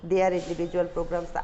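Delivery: slow, deliberate read-aloud for students; slow dictation reading. Acted. Teacher dictating the English passage slowly to students. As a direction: read each phrase slowly so the class can follow.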